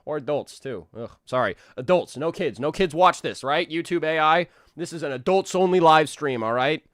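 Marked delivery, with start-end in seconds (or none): 1.8-6.8 louder, higher joking proclamation; playful insistence to YouTube AI; mock announcement. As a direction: announce it loudly for the algorithm.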